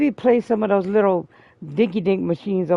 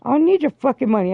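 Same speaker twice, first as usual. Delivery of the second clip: higher, louder, fast angry comeback; angry retort; 6 semitones higher, 3 dB louder, faster than usual. Retold or imitated. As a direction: throw it back at her, fast and loud. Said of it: "I was like".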